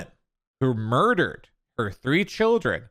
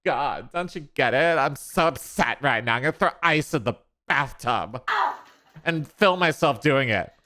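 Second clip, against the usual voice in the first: mock TikTok mom; 3 semitones higher than usual. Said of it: "And action".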